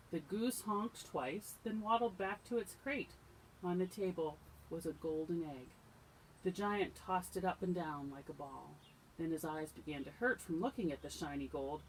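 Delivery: animated storytime reading; telling a fairy tale to little listeners; storybook narration. A narrator's reading. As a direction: read it aloud to children, clearly projected. Reads a story aloud to children.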